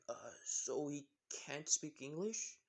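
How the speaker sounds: slow, mild questioning; calm boy. Acted. Dylan, the calmer one, asks about Izuku's English, calmly. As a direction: ask it slowly and evenly. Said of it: "Dylan being the more calm one".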